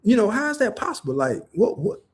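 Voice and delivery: put-on high puzzled kid voice, rising on each what; confused child. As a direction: play a baffled little kid hearing something strange. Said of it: "the child gonna be like".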